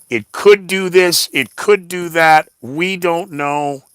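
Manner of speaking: mocking wishy-washy voice; mock vague client. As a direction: parody the client's hedging.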